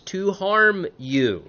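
angry Laban. Acted. Father-in-law threatening to harm Jacob, acted anger. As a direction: stretch the words into an acted warning. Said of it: "Laban is angrily confronting".

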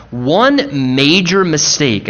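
"major" weighted and drawn out, slow; slow down and lean on "major"; stress on major. Shown as a demonstration. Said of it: "I emphasize the word major".

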